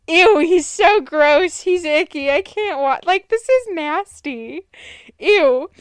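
mock-horrified "ew" reaction; grossed out. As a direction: recoil in icky disgust, drawing out the words. Retold disgust in the theater.

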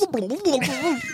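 xylophone mouth noise. Acted. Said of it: "sounded like a jellyfish drowning".

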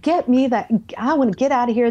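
mildly upset, acted-out protest; upset retelling. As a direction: retell it as an agitated outburst. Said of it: "I'm upset by now".

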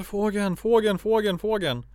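high, repetitive mock child's cry; imitated screaming toddler. Sibling imitating little brother waking terrified, mock high cry. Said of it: "Han bara skriker och skriker".

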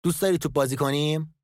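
put-on a kind father inviting a child; kindly. A narrator's reading. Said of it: "با صدای مهربان گفت". (با لحن مهربان و کمی زیرتر)

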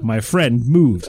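slow, low, portentous delivery; hammed-up horror-story reveal, slow and deep; mock-dramatic reveal. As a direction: drag out the twist for effect. Reads twist as mock horror reveal.

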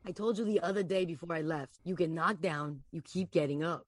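lightly acted Boston tough guy; Boston mobster Anthony. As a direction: read it like a Boston hustler.

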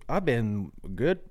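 talking while chewing gum. Real, not acted. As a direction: chew gum as you speak. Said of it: "I've got chewing gum in".

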